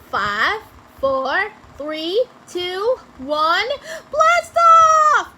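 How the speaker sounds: loud count, exploding into a high shout; countdown building to shout. A narrator's reading. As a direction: count down firmly, then yell the launch. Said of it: "Amelia Bedelia counted down".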